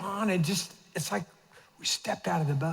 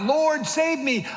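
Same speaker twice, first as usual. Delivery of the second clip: high, slow desperate plea; cry for help; 7 semitones higher, 3 dB louder, slower than usual. Acted. Peter crying out to Jesus, slow and high. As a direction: stretch it out like a drowning man. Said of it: "when he cried out".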